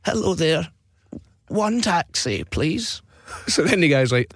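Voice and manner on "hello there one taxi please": put-on slow, wavering old man on the phone; old guy. Prank caller asks taxi firm for a cab, old guy voice. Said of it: "pretend to be an old guy".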